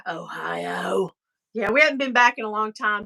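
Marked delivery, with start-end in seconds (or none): 0.0-1.1 mock despair. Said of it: "you'd be like".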